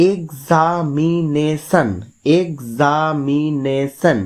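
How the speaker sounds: এক্সামিনেশন very slowly as এক, সা, মি, নে, শন; even, drawn-out beats through এক্সামিনেশন; five separate syllables. Shown as a demonstration. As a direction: sound out every syllable of এক্সামিনেশন. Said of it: "পাঁচটা syllable আছে".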